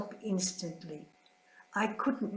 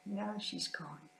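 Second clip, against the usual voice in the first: much softer, slow, fading repeat; softer grief; 8 dB quieter than usual. Real, not acted. Nun mourning her sister, much softer repeat. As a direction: let it fall away to almost nothing.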